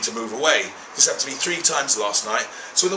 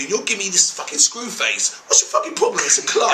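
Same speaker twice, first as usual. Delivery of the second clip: indignant shout; 9 semitones higher than usual. Retold or imitated. Teller vents at the women giving him screw face, shouting. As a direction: throw the question back at them.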